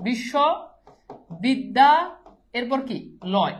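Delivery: বিশ্ববিদ্যা stretched very slowly while writing it; slow spelling out. Shown as a demonstration. Teacher to class, writing the word out, very slowly. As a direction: drag the word out as you type it. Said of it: "আমি এটার Banglish লিখি".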